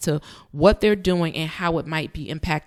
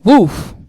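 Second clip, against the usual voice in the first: impressed woof; 4 semitones higher, 11 dB louder than usual. Real, not acted. Reacts to the played clip.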